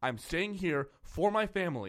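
put-on, pulled-back, mild defiant scream. Recounting a scene they watched, acting out a character's line: retelling a scream. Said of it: "He's screaming".

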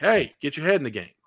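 plain

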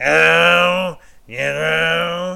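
high, raspy drawl, "know" stretched out. Recalling a movie character's line in the Monsters, Inc. investigator lady voice. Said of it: "the investigator that kinda goes".

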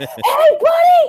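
very high, loud, shrieking scream. Retelling yelling at a speeding driver: retelling a scream. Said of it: "screamed bloody murder".

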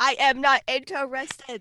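loud emphatic delivery. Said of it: "That's what the emphasis in the claps".

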